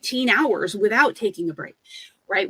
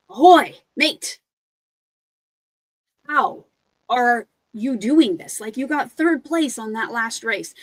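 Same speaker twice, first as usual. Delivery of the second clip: pirate runner; 3 semitones higher, 4 dB louder than usual. Acted. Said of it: "turns to the runner next to him and is like".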